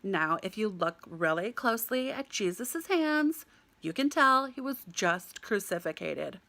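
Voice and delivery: lightly voiced American guide; slightly slowed, presenting to a tour group. American guide explaining a tapestry to tourists, lightly imitated guide voice. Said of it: "I hear this American voice say".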